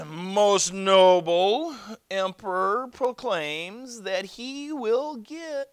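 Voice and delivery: loud, high, drawn-out herald; pompous imperial messenger; official announcement. Acted. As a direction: proclaim it grandly to the whole crowd. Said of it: "made an official announcement".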